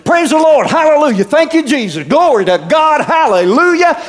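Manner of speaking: drown the cussing out with praise; shouting praise. Retold or imitated. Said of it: "he just shouted him down".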